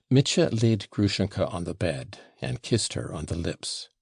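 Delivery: ordinary delivery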